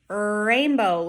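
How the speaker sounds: rainbow with a long opening R; strong initial R. Shown as a demonstration. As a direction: stretch the R starting "Rainbow". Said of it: "difference between the W and the R".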